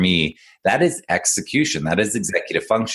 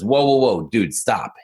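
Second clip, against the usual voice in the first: put-on old dog calling out to the other dog to stop, raised voice; 3 semitones higher than usual. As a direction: call him off mid-chase. Old dog halts the chasing dog.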